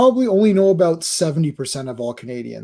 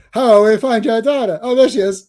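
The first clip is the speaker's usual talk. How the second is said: raised cartoon Canadian voice, silly turnaround; Terrence and Phillip; 5 semitones higher, 4 dB louder than usual. Host re-enacts the search for the daughter, hammed-up cartoon voice. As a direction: replay the mock worry and sudden find. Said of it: "My favorite Terrence and Phillip".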